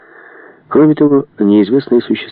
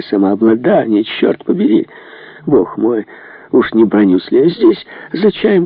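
agitated prince, pitch leaping at moments; взволнованный князь. Acted. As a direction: play a rattled, indignant prince. (взволнованный, возмущённый князь)

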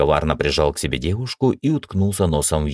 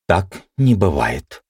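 with conviction; 3 semitones higher, slower than usual. Acted. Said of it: "убеждённо сказала Ева".

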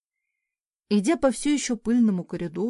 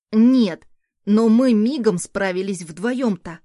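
put-on loud, slow, important little boy; self-important child; 8 dB louder, slower than usual. A narrator's reading. Son boasting of breakfast made with granny, self-important. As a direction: declare it slowly and loudly, with importance. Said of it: "важно заявил ребёнок".

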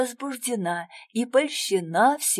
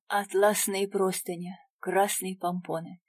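usual speaking voice

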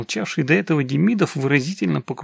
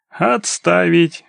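loud, drawn-out military order; barked command; 4 semitones higher, 7 dB louder, much slower than usual. A narrator's reading. Demidov changes tactics with the clinging man, barking an order. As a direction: bark it like a drill commander. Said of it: "рявкнул он".

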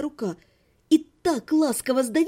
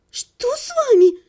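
much higher, anxious and louder; worried question; 11 semitones higher, 5 dB louder, slower than usual. A narrator's reading. Lidia anxiously asks the sobbing chaperone, high. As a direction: ask in sudden worry. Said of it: "заволновалась Лидия".

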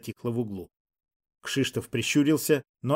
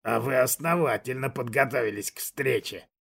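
soft hiss. Acted. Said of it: "мягко прошипел Кшиштов".

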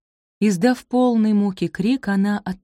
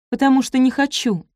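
sharp high outburst, louder; exclaiming; 7 semitones higher, 4 dB louder than usual. A narrator's reading. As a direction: blurt the refusal out high and loud. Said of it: "воскликнула она".

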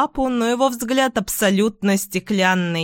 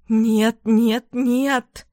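trembling voice; 3 semitones higher, much slower than usual. Acted. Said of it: "дрожащим голосом".

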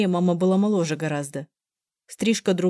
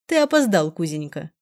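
venomous sarcasm. Acted. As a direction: needle him sweetly and spitefully. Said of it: "подозрительно язвительным голосом". (язвительно, с издёвкой)

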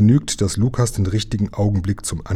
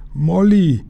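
high, drawn-out call; long, high-pitched yell; crying out; 9 semitones higher, 4 dB louder than usual. A narrator's reading. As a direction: cry the name across the water. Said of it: "schrie Jim".

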